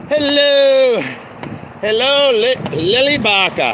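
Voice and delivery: loud, high hello; calling out hello. Real, not acted. Loud hello to someone passing by. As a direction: call out to the neighbours.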